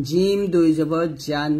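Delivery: জিম and জান with a hard j from mid-tongue; slow, firm j in জান; firm jim. Shown as a demonstration. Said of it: "জিম জিহ্বার মধ্যখান থেকে".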